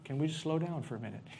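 laughing plea. Retold or imitated. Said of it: "Aaron's like".

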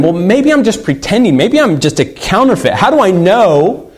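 a touch of pleading doubt; anxious wondering. Acted. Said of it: "we're always wondering".

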